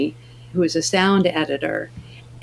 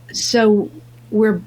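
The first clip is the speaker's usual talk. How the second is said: laughing disbelief; 4 semitones higher than usual. Real, not acted. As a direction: question bubbling with a laugh. Incredulous about Texan casting.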